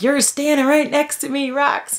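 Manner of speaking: high-pitched, squeaky ordering about; mock arguing. Owner arguing with her freaking-out dog, mock bossy. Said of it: "like, I argue with him a lot".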